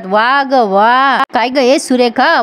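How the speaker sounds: slow, drawn-out sarcastic bravo; mocking applause. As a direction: stretch out the words in mock admiration. Acted sarcastic applause on catching plotters. (उपरोधिक, लांबवलेली शाबासकी)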